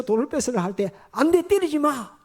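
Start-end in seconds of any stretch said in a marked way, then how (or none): 1.1-2.2 high, drawn-out cry to stop; pleading shout. Retold or imitated. Man crying out to stop friends hitting the woman, high and pleading. Stopping the beating.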